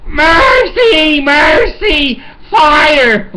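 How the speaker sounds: high, loud yell for help. Retold or imitated. Husband yelling for his wife through soundproof doors, loud high yell. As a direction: call her through the doors, all-out. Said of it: "I'm yelling through soundproof doors".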